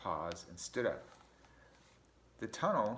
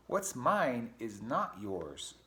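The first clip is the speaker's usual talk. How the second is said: slow, firm refusal; cross Mouse; 3 dB louder, much slower than usual. Acted. Mouse refusing Ratty, slow and cross. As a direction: drag it out, each word a no. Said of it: "said Mouse crossly".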